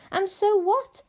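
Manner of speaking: high, loud, eager interruption; impatient child. Acted. Abilene interrupts her grandmother's story, impatient.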